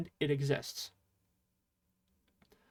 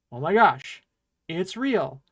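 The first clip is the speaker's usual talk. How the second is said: a louder demo gasp of surprise; mock surprise; 5 dB louder than usual. Shown as a demonstration. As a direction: play shocked that it's real. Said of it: "that surprises us".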